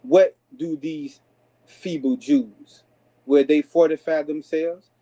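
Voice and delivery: slow, scornful taunt; mocking enemy. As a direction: drag out the sneer at the feeble Jews. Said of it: "and said".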